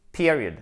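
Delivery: "Period" with the accent up front; stressed first syllable. Shown as a demonstration. Teacher points out the tonic accent, first-syllable stress. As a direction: punch the opening syllable of "Period", let the rest fall. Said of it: "accent tonique".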